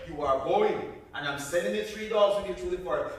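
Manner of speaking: no arguing, she is going; stern mother. Acted. Mother overrules Buddy.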